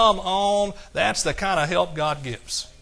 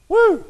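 joyful whoop; 8 dB louder than usual. Real, not acted. Preacher whoops after scripture.

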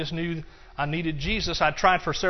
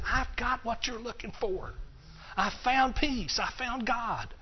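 passionate; 6 semitones higher, slower than usual. Retold or imitated. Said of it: "I was passionately telling them".

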